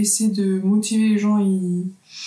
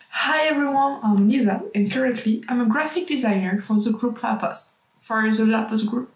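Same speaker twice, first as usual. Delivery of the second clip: practising an English accent. Shown as a demonstration. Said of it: "Faut que je m'entraîne et tout à travailler mon accent".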